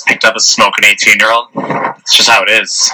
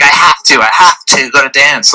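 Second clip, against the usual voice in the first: higher-pitched mock girl voice; mimicked date insisting; 6 semitones higher than usual. Date turns down his movie invitation, mimicked insistence.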